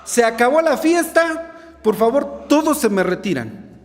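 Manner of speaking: loud, high, slow commanding order; authoritative shout. Acted. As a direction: clear the party with full authority. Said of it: "con autoridad". (ordena con autoridad, fuerte y lento)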